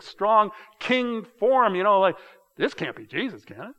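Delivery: mock-scornful crowd voice, swelling on strong king form; scoffing doubt. Pastor voices a doubting bystander, scoffing. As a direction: scoff at the idea, building then dropping. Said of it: "there's kind of three pieces to this".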